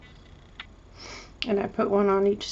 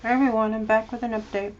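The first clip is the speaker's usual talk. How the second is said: mouth full; 2 semitones higher, 3 dB louder, faster than usual. Real, not acted. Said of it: "excuse me if I sound funny, I've got a piece of candy in my mouth".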